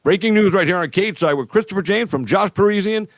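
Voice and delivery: high-pitched breaking-news proclamation; mock announcer. Host breaks the fighter's exclusive to viewers, mock announcer. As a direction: announce it grandly, slowing into the final words.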